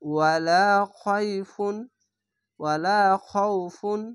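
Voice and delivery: ওয়ালা খৌফুন recited slowly, final n unheld; clear noon ending. Shown as a demonstration. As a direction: stretch ওয়ালা, then stop cleanly on the n of খৌফুন. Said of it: "স্পষ্টভাবে".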